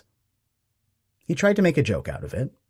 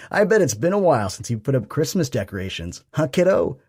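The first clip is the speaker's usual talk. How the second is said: dad's voice; 5 semitones higher, 4 dB louder than usual. A narrator's reading. Dad teases son.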